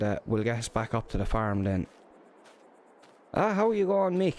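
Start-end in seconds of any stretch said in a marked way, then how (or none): 3.3-4.3 hearty greeting. Real, not acted. Calling out a cheery hello to Mick arriving. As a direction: greet him warmly, calling out.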